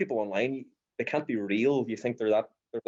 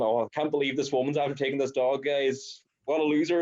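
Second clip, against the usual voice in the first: higher, hammed-up indignation; mock outraged; 4 semitones higher than usual. Posting a story blaming the old woman, mock outraged. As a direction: play the outraged poster. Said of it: "I put up another one".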